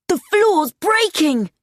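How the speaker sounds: high, slow cry of alarm; alarmed shout. A narrator's reading. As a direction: shout a warning, drawing it out. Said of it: "shouted D J".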